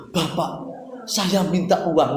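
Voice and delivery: put-on stiff, slow, overly formal child asking father; a touch of stiff politeness; formal request. Child asking father for money, stiffly formal. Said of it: "Nggak perlu gitu".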